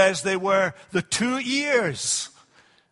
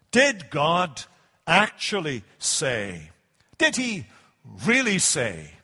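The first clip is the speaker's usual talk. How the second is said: sarcastic serpent; 3 semitones lower than usual. Acted. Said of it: "You sense the sarcasm in his voice".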